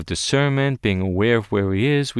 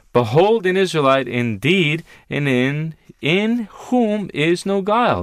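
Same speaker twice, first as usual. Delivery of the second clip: loud, higher ringing verse reading; forceful proclamation; 5 semitones higher, 3 dB louder than usual. Acted. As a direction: call it out like a herald.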